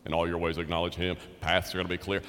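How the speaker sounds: dreamy comfortable quoting. Retold or imitated. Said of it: "They love what?".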